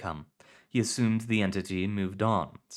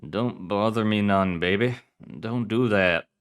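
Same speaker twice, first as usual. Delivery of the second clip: groggy hungover mumble; 5 dB louder than usual. Acted. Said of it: "I say something like".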